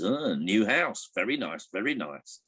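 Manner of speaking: hint of a nosy parrot sizing things up. Parrot looking round its new home, lightly voiced parrot. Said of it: "the parrot looks around and says".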